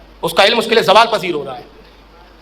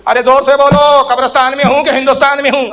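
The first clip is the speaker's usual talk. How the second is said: demanding louder reply; 4 semitones higher, 3 dB louder than usual. Retold or imitated.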